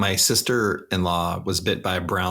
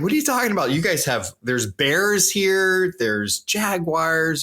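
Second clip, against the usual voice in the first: imitating the Aussie; 9 semitones higher than usual. Aussie lists American dangers, mock outrage. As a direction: list the beasts like he can't believe it. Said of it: "He's like".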